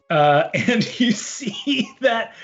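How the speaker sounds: usual speaking voice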